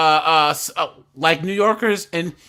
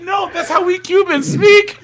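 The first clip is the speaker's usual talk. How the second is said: high, loud retort; hammed-up high shout; mock Cuban shouting; 12 semitones higher, 7 dB louder than usual. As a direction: imitate a friend yelling her proud answer. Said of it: "machine gunning Spanish at each other".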